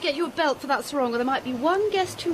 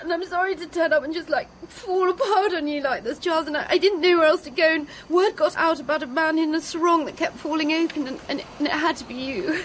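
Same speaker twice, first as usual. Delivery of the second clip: rambling, weepy confession; tearful. Acted. Girl apologising for falling apart on Charles, tearful. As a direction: apologise through tears. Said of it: "you might stop crying soon".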